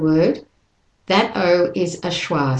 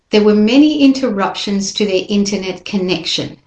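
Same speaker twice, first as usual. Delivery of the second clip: fast, unbroken "there were many interruptions", no pause; one continuous phrase; faster than usual. Shown as a demonstration. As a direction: keep going without a break. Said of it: "you just keep going".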